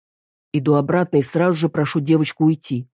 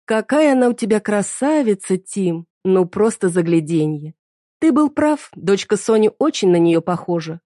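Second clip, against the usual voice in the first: high sugary female voice, fake-sweet; scheming woman praising his daughter with mock warmth; gushing mistress; 4 semitones higher than usual. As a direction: lay on the sweetness to needle him. Mistress gushes over the daughter.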